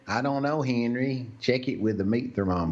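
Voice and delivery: mock southern accent. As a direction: tease the name in a southern accent. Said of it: "Making fun of our cousins".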